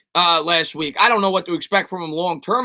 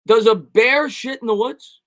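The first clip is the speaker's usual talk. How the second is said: ordinary talk, nothing marked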